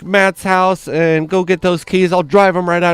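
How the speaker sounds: high, fussing worried mom; sympathetic mom. Retold or imitated. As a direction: gush over the poor boys like a doting mother. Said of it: "she's like".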